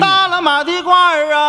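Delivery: ringing vendor call; hawker's cry. Acted. Shopkeeper cries out the jacket for sale. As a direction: call out the wares. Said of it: "shopkeeper starts the call".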